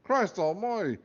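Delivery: high, loud Scottish exclamation; Scottish accent. Acted. Talking hat startled inside the boy's head, loud Scottish cry. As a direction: bellow it like a gruff Scottish hat. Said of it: "cried a Scottish accented voice".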